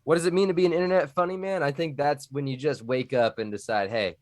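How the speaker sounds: put-on Texan Southern accent. Streamer answering chat about being an internet funny man, Southern accent. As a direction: answer in a playful Texan twang. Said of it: "do you have to do the accent".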